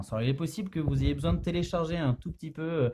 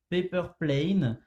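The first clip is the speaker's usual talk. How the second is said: self-mocked French-accented English. Real, not acted. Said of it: "mon magnifique, euh, accent anglais".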